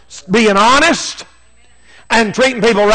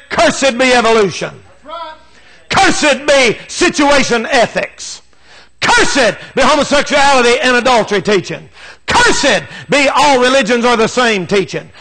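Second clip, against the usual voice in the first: building denunciation. Acted. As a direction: hammer every Cursed harder as the list builds. Preacher building a list of curses.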